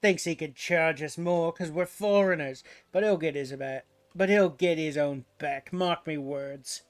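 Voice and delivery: put-on pirate accent. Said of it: "Pirate accents are tough".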